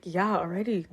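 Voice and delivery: understated comeback, falling at the end; retold matter-of-fact reply. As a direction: answer the question as settled fact. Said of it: "I'm like".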